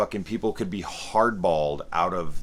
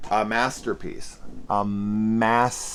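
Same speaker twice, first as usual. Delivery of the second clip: sarcastic praise; 3 semitones higher, 3 dB louder than usual. Acted. Sarcastic verdict, repeated.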